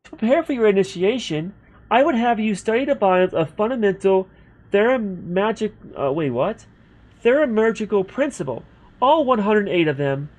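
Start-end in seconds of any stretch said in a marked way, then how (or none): 0.0-5.7 put-on lightly raised girl's voice for a guild clerk; a young woman's voice, grand and formal. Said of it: "I can't do the girl's voice anymore". 7.2-10.3 put-on lightly raised girl's voice for a guild clerk; a young woman's voice, grand and formal. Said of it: "I can't do the girl's voice anymore".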